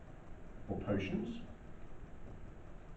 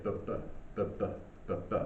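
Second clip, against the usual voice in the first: heartbeat sound; 4 semitones lower, 7 dB quieter, much faster than usual. Shown as a demonstration. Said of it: "it is representative of your heartbeat".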